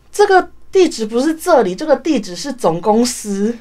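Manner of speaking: a hint of a shop clerk setting her straight; clerk explaining. Retold clerk telling the courier she has the wrong address, lightly voiced. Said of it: "然后那个店员就跟我说".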